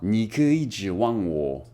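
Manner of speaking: 你可以指望我 echoed slowly; slow Mandarin repeat. Shown as a demonstration. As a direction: copy 你可以指望我 carefully.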